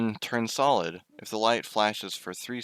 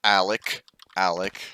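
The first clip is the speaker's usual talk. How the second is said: calling out; 6 dB louder than usual. Real, not acted. Calling out to a friend in game.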